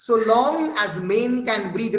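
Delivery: "long" stretched and leaned on; slow, drawn-out "long" in a verse reading; stress on long. Shown as a demonstration. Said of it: "আমি লং এ দেখবে pronounce করছি". ("long" শব্দে টেনে জোর দিয়ে পড়া)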